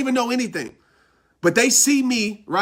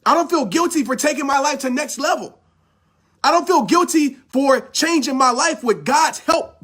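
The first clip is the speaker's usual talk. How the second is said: passionate; 4 semitones higher than usual. Real, not acted. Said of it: "I'm talking like this because I'm super passionate".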